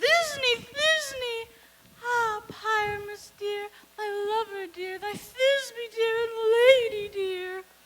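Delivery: very high, very loud, shrill, slow monstrous little voice. Volunteering to play Thisbe as well, showing how it would sound: Thisbe in a monstrous little voice. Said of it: "I will speak in a monstrous little voice".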